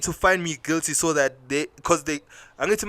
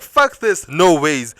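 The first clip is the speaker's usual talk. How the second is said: defiant refusal; 6 dB louder, much slower than usual. Retold or imitated. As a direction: slam the door on it. Storming out, refusing.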